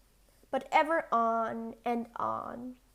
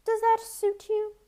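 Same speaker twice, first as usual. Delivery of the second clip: giant asking; 10 semitones higher, 5 dB louder than usual. A narrator's reading. Giant offering wages.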